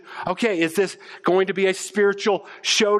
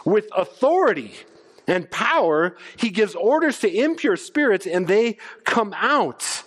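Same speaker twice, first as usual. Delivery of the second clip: amazed crowd; 3 semitones higher than usual. Retold or imitated. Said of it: "were amazed and said".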